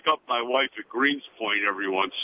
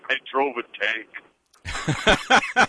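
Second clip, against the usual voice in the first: retold quote; 2 semitones higher, much slower than usual. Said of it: "He said".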